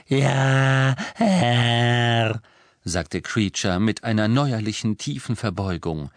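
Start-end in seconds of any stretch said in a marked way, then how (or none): 0.1-2.4 loud, croaky servile elf reply; grudging obedience from a bitter elf; a reluctant house-elf answering his new master; croaking elf. A narrator's reading.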